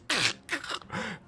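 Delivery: throaty crackle of a dying creature; dying creature noise. Acted. Game master sounds creature's dying mouth.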